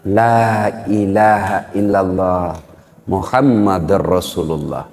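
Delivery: very slow, low dying recitation; laboured. Acted. Dying son guided to say the creed, laboured. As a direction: draw the words out low, with effort. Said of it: "dengan susah payah mengucapkan".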